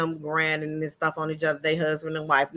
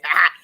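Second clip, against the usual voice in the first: short mock "ha, ha"; imitated laugh; 7 dB louder than usual. Vlogger shows how the wife laughed, imitated laugh. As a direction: imitate her quick, pointed laugh. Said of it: "She laughed just like that".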